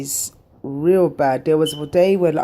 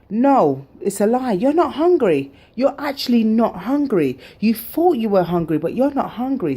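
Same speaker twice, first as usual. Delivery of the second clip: firm scolding; 6 semitones higher than usual. Retold or imitated. Scolding herself.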